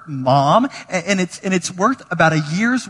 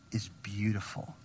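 whispered; 6 semitones lower, 16 dB quieter than usual. Real, not acted. Preacher stresses Jesus' verdict.

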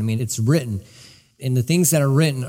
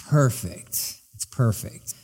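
hushed in awe; 3 semitones lower, 5 dB quieter, slower than usual. Real, not acted. Moved by the bride.

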